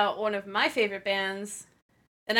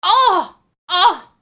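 excited oh; 9 semitones higher, 14 dB louder than usual. Real, not acted. Delighted reaction to band name.

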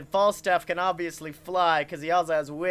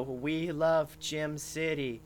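zombie animatronics; 4 dB quieter than usual. Acted. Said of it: "and they go".

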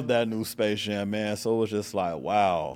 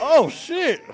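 retold shock; 6 dB louder than usual. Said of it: "And I was like".

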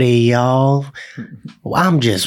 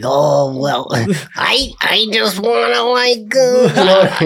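higher, halting mock Jewish accent; Orthodox Jewish accent; 6 semitones higher, much slower than usual. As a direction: hesitate through a put-on Jewish accent. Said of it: "Jewish accent".

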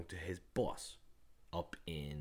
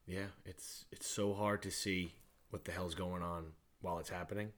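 monotone; 3 semitones lower, 5 dB quieter than usual. Real, not acted. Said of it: "not be so fucking monotone".

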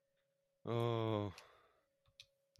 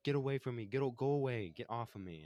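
high, louder imitation of a tantrum; mock hissy fit; 5 semitones higher, 4 dB louder than usual. Sawyer telling David to get away, hissy fit. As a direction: push them away in mock panicky protest. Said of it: "throwing a hissy fit".

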